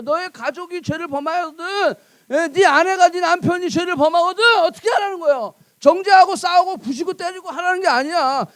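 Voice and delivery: ordinary delivery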